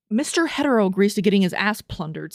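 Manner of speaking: stunned rereading of a wild line; incredulous reread. Real, not acted. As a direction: reread it like you can't believe it. Whoa. Whoa.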